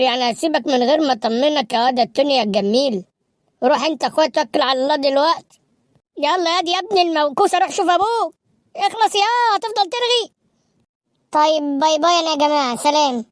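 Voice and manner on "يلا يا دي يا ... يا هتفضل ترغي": scolding mother. Acted. Mother scolding son to hurry.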